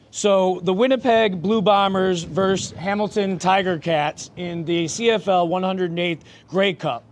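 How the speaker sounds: measured sports bulletin read; formal read-out. Real, not acted. Co-host reading Grey Cup facts to the panel, formal read-out. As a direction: read out the match preview formally. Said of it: "Why are you talking like this?".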